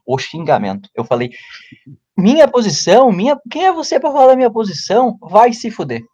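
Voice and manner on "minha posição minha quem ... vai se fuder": mock angry retort. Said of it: "soltei o pior de todos argumentos".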